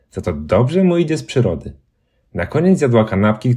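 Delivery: ordinary delivery, nothing marked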